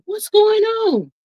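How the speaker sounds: high, slow, panicked question; retold mother's alarm on the phone. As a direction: ask what's happening in a sudden fright. Retelling her own alarmed call.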